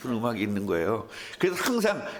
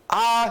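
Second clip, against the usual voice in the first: mock child's begging ah; 7 semitones higher, 7 dB louder than usual. Child opening mouth for snack.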